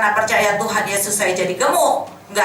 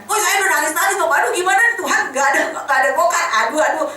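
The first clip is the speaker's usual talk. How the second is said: higher, fast mock panicked wail; retold panic; 5 semitones higher, faster than usual. Mother retelling her panic over no ride to church, higher fast mock wail. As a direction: rush it out like a frantic mother near tears. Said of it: "Saya panik kan".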